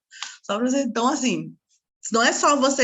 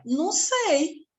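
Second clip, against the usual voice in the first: mock clueless dad; 7 semitones higher, much slower than usual. Dad answers in retold story.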